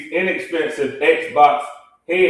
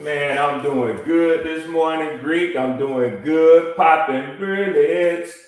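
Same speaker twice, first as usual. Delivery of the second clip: tunnel echo; slower than usual. Real, not acted. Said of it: "sound like he in a consolidated tunnel".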